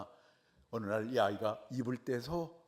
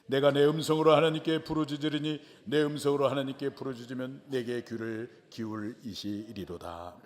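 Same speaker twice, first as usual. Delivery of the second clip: psalm reading; 4 dB louder than usual. Shown as a demonstration. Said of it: "한번 읽어볼까요".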